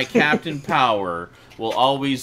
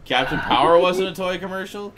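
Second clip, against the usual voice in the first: higher-pitched, incredulous rhetorical question; sarcastic challenge; 5 semitones higher than usual. Real, not acted. Defending a favorite show from the toy-commercial jibe, sarcastic. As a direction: throw it back as a sarcastic question. Sarcastic comeback in a mock argument.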